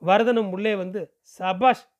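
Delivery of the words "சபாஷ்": praising. Acted. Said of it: "என்றான்".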